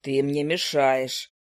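a grumpy bird drawling down low; low owl familiar. Acted.

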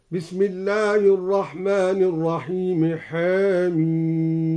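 حاميم with the ha vowel tilted toward e, chanted slowly; taqlil on حاميم. Shown as a demonstration. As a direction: lean حاميم's vowel halfway to e. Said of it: "قلل الدوري الحاء من حاميم هكذا". (تقليل الحاء في حاميم)

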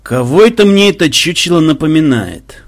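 put-on thoughtful old gamer musing; pensive musing. A narrator's reading. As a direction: wonder aloud, puzzling over it. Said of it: "задумчиво заметил дед Банзай".

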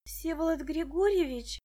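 name exhaled on a breath. A narrator's reading. Муся sees Медынский at the gate, breathy. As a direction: sigh the name in surprised relief. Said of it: "выдохнула Муся".

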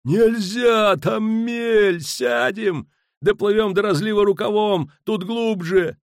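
high, loud urgent warnings; panicked yelling at high pitch; frantic shouted argument. A narrator's reading. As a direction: holler back insistently about the course. Sailors argue frantically over the course.

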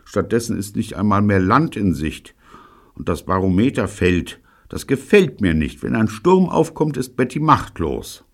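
high, worried grumbling; complaining. A narrator's reading. Gordon fretting over no land in sight, complaining. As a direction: keep up a high-pitched moan. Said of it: "beklagte sich Gordon".

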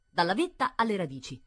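ordinary delivery

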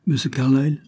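lancé vivement, plus haut et plus fort; un nom qui échappe trop vite. A narrator's reading. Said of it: "ajouta vivement Lady Isabel". (Isabel parle à Barbara sans réfléchir, avec vivacité)

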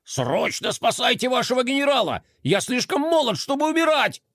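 high, panicking cries; panicked. A narrator's reading. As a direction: plead for rescue in panic. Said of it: "закричал сконфуженный кролик".

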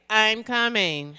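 flat, bored "I'm coming"; deadpan. Retold or imitated. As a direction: say it with zero excitement. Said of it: "Just that flat".

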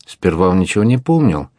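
plain reading voice

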